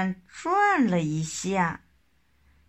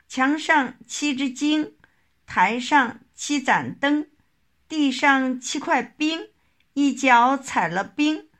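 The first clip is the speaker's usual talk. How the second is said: higher-pitched, rhythmic tongue-twister delivery; tongue-twister recital; 6 semitones higher, 3 dB louder than usual. Acted. Narrator reciting a rhyme about seven stars and eagles, tongue-twister style. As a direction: recite it in short, even, high-pitched phrases.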